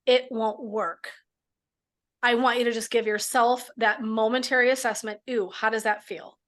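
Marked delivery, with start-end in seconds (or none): 0.0-1.1 demo phrase. Shown as a demonstration. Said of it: "When you think of that phrase".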